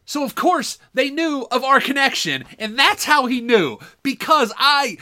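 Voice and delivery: tumbling out with excited glee. Real, not acted. Excited realization, laughing.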